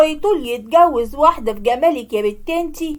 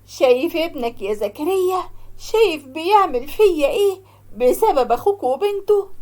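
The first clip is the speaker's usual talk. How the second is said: crying to late husband; 3 semitones higher than usual. Acted. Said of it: "وهي بتعيط".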